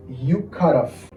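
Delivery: slow, drawn-out teaching delivery; measured language-teacher pace; slow model phrase. Shown as a demonstration. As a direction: spell out each word for learners. Teacher models English phrase slowly.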